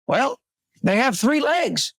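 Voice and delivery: high, slow hick farmer voice; country farmer. Acted. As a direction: drawl it like a proud backwoods farmer. Farmer answers in joke.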